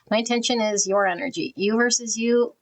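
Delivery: talking with a numb mouth after the dentist. Real, not acted. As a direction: speak as if your mouth is still numb. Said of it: "I might sound a little funny 'cause I went to the dentist".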